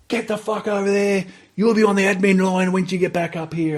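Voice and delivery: hammed-up drill instructor rage; instructor yelling. Instructor orders recruit away.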